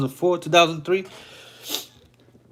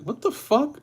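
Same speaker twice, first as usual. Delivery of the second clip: outraged disbelief; 12 semitones higher, 4 dB quieter than usual. Retold or imitated. Retold anger walking down stairs.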